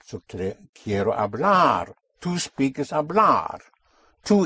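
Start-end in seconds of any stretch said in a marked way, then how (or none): 0.8-1.9 quiero hablar, punching the final LAR; stress on the ending. Shown as a demonstration. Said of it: "you hit the ending". 2.9-3.6 hablar as hab-LAR, last syllable strong; stress on the ending. Shown as a demonstration. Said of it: "you hit the ending".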